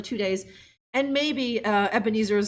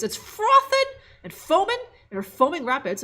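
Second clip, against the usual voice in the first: hammed-up reading; 6 semitones higher than usual. Hamming up the game text.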